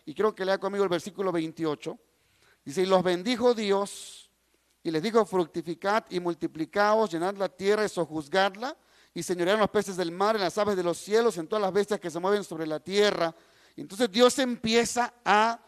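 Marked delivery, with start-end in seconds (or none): 2.8-13.3 even, lower-set Bible reading; scripture reading. A narrator's reading. Preacher reading Genesis to the congregation, scripture reading. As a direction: read the verse aloud in a measured public voice. Reads Bible passage aloud.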